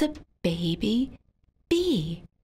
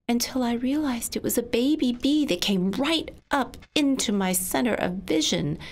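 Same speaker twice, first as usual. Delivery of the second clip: ordinary delivery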